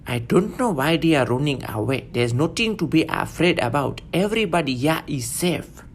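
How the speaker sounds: a reassuring Ethiopian accent; quiet Ethiopian accent. Shown as a demonstration.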